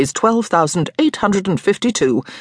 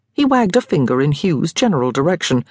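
ordinary delivery

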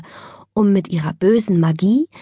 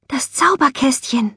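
excited-sounding stage whisper, higher; 6 semitones higher than usual. A narrator's reading. Jasmin spots a familiar shimmer in her lunchbox, whispering. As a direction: whisper it in hushed amazement. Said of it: "flüsterte Jasmin".

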